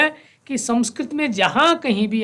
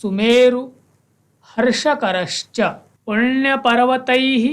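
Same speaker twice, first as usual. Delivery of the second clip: slow, measured chanting of the verse; verse recitation; slower than usual. Shown as a demonstration. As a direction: recite each word clearly like a teacher. Teacher recites Sanskrit verse. (धीमा श्लोक पाठ)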